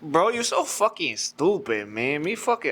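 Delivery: drawn-out mock Mexican accent; attempted Mexican accent. Shown as a demonstration. Friend showing off his Mexican impersonation, attempted Mexican accent. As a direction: slip into a shaky-fit Mexican accent. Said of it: "Give me your best Mexican impersonation".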